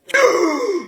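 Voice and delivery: high sharp gasp; dramatic gasp. Acted. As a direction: gasp in mock shock.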